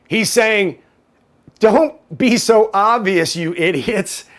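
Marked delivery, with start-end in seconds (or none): 1.6-4.2 slow, drawn-out mock rebuke; mock scolding. Host paraphrased to his liberal minions, mock exasperated scolding. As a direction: scold them as if spelling it out.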